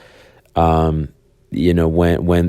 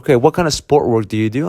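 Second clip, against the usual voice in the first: quick, probing lawyer's question; a lightly voiced lawyer digging for details; half-played cross-examiner; pressing lawyer; 4 semitones higher, faster than usual. Lawyer grilling the dog owner.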